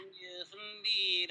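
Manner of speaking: slow, drawn-out villain impression; Frieza impression. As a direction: savor it slowly like an anime villain. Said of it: "I just did a Frieza impression".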